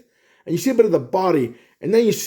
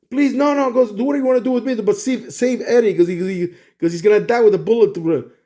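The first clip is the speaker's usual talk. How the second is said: higher, mildly desperate begging; retold pleading; 4 semitones higher than usual. Venom begging Spider-Man not to fire, mild pleading. Venom begs to save Eddie.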